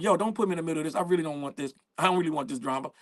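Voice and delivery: subdued, low mock plea; reluctant DJ. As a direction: voice a DJ wanting no part of it, low. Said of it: "The D J's like".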